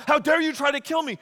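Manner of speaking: high, loud, fast indignant outburst; indignant lover's quarrel, played for laughs; mock outrage. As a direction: act affronted, hammed-up. Acted quarrel between Samson and Delilah.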